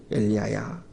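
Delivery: 낮고 작게 건네는 하나님의 음성; 귀에 대고 나직이 묻듯; 조용히 귓가에 속삭이듯. Acted. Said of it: "조용한 소리, 귀에다가 속삭이는 소리". (낮고 조용한 속삭임 같은 소리)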